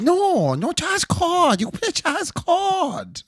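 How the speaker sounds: put-on high, drawn-out caricatured Asian accent; mock Asian accent. Unsatisfied customer to pianist, high mock Asian accent. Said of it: "the young Asian man is not satisfied".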